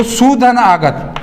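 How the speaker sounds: सुधन आगत drawn out, x0.5 slow; teacher slowly splitting स्वागत into सुधन आगत; slow split. Shown as a demonstration. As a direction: spell out each part of the split slowly. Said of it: "संधि विच्छेद करते हैं".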